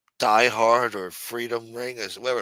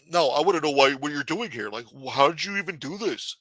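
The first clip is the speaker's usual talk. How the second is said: slightly raised nosy questioning; lightly voiced Casperosa; 4 semitones higher than usual. Casperosa grilling the councilman, lightly raised voice. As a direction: press him for answers, a bit higher. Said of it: "Casperosa's gonna be popping out".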